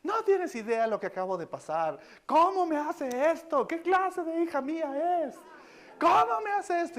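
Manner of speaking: esposa indignada, con voz muy aguda; enfadada. Retold or imitated. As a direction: reclama escandalizada, alargando las palabras. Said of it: "Estaba súper enojada". (muy enojada, imitada)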